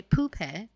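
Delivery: POOPE with a Manchester second syllable; Manchester pronunciation. Shown as a demonstration. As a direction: say "poope" the Manchester way, "poo-peh". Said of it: "How they can say".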